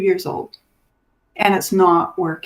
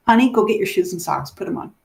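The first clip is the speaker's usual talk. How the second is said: put-on talking to a child; faster than usual. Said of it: "just like we normally say to children".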